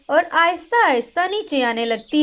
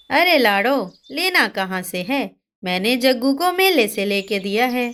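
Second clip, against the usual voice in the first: dismissive mother; 3 semitones lower than usual. Acted. Reema dismissing Lado, low offhand voice. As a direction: lower brushing-off voice.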